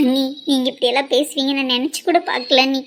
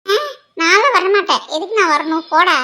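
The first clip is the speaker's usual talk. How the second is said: laughing refusal; 5 semitones higher than usual. Acted. Teasing refusal while giggling.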